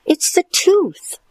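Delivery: high, chewing the words; mouth full. Acted. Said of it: "chewed Stuart".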